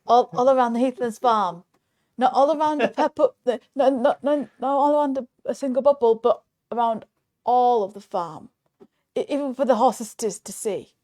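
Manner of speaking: building up the silly punishment with glee; excited. Real, not acted. Wild punishment pitch, getting carried away.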